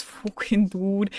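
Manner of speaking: slow drawn-out "fucking dude"; imitating chat phrase. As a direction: drag out "His fucking dude" slowly. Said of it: "everybody's just saying "fucking dude" like this now".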